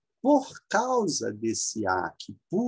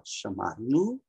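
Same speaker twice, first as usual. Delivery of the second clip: chamar-no said with the stress on mar and a rising end; teacher marks the stress in chamar-no; stress demo; slower than usual. Shown as a demonstration. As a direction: lean on mar in chamar-no, then lift the end. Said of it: "o acento tá aqui".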